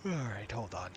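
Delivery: said through a yawn. Real, not acted. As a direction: let a yawn drag the words. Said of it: "Sorry, I keep yawning".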